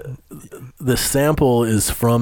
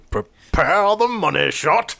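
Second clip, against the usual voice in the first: laughing echo; 9 semitones higher, slower than usual. Retold or imitated. Echoing the joke while laughing.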